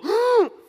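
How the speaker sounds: high, loud mock gasp; sharp exaggerated intake of shock; collective gasp. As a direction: imitate diners gasping at broken glass. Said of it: "and we go".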